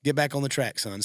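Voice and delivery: a hint of a booming God correcting his son; playful voice of God. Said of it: "And then God's like".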